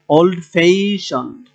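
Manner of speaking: ওল্ড ফ্যাশনড slowly, ফ্যাশ stretched; drawn-out ফ্যাশ after ওল্ড, falling on the ending; stress on second syllable. Shown as a demonstration. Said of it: "এখানে stress করতে হবে".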